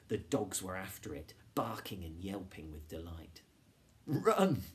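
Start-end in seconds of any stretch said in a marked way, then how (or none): 4.1-4.6 high, loud, playful yell; gleeful shout. A narrator's reading. Boy urging friends away from dogs, gleeful shout. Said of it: "laughed Jonathan".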